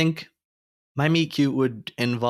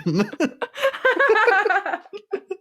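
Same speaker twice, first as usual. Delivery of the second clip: dragon noise; 3 dB louder than usual. Pretend. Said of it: "How do you make dragon noises rhyme?".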